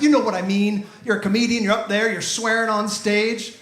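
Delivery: imitated defensive fan. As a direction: argue your case point by point. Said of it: "tried to defend himself".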